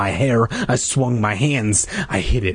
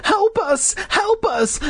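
very high falsetto plea; hammed-up shriek, no real volume; slower than usual. A narrator's reading. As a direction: squeal for help like a panicked child. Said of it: "Clay started to shriek".

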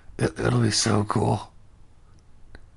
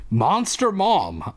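dramatic whisper-thought; 6 semitones higher, much slower than usual. Acted. Narrating kid's thought.

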